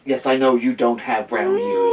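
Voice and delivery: laughing through the words; teasing laugh. Real, not acted. Parent teases the child about brown ears, laughing.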